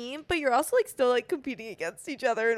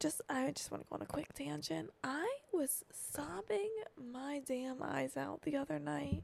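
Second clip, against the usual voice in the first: barely audible, hushed, very quiet half-whisper; 3 semitones higher, 12 dB quieter than usual. Starting a quick tangent with the other speaker, the speaker confides while half-whispering. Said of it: "Why are you whispering?".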